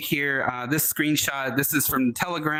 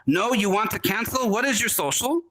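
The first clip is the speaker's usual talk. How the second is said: fake bank caller; 6 semitones higher than usual. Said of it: "they would say".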